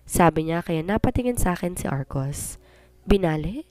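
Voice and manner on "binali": disbelieving. Acted. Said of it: "Parang di makapaniwalang bulalas niya".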